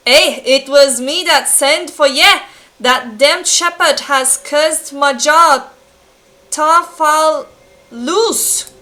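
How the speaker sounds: emphatic, clumsy Scottish blacksmith; amateur Scots character voice; bad Scottish accent. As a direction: attempt a rough Scottish accent. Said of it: "not good at making s-, Scottish accent".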